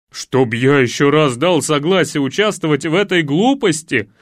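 loud, groaning complaint; стон. Acted. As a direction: moan it out in exasperation. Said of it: "простонал Илья". (простонать с досадой)

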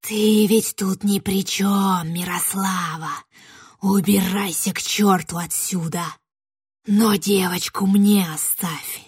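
put-on slow, menacing witch demanding the girl; hungry witch claiming the girl, slow and looming. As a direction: draw each demand out with greedy menace.

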